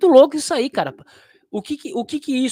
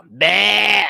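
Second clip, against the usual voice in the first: slow, drawn-out bleat; playful sheep noise for a viewer; 2 semitones higher, 8 dB louder than usual. Pretend. Joking sheep bleat at Carneiro.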